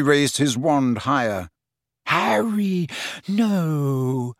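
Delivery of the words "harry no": moaning plea. A narrator's reading. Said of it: "moaned Hermione".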